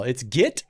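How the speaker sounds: "git" with a short I in place of E; get said as git. Shown as a demonstration. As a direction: say "git" to rhyme with "sit". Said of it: "where they pronounce get with an I in the middle".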